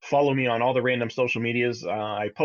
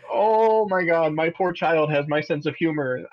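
amazed; 4 semitones higher, slower than usual. Retold or imitated. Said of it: "I was just like".

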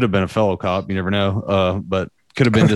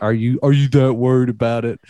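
teasing; 2 semitones higher than usual. Retold or imitated. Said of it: "just kinda giving him shit".

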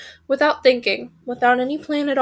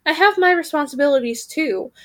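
aggrieved raven. Acted. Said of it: "said the second raven".

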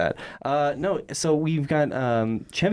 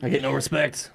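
Rodney Dangerfield impression. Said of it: "Rodney Dangerfield".

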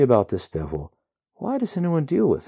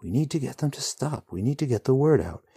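growling; 7 semitones higher, 3 dB louder than usual. A narrator's reading. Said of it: "the hero growls".

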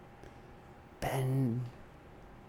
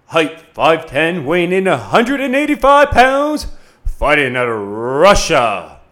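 ring announcer; 4 dB louder than usual. Acted.

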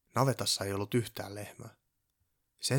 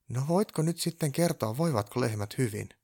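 mildly indignant, pitched up at the start; 5 semitones higher, 5 dB louder than usual. A narrator's reading. Purjopää questioning the elf about the cows, indignant. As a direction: demand an answer, a little affronted. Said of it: "Purjopää sanoi närkästyneenä".

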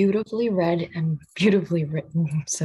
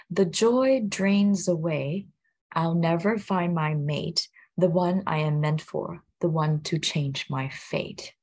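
poem quote; slower than usual. Retold or imitated. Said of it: "the part that says".

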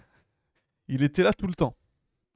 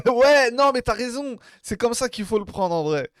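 laughing; 7 semitones higher, 5 dB louder than usual. Real, not acted. Laughs, high after joke.

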